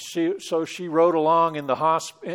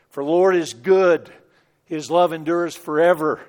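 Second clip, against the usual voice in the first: recited scripture; 5 dB louder than usual. Retold or imitated. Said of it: "that last verse of the passage".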